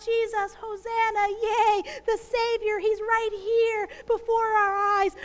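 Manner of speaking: a crowd's joyful hosanna; crowd's cheering cry. Retold or imitated. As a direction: hail him like the Palm Sunday crowd. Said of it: "wave those branches and cry out".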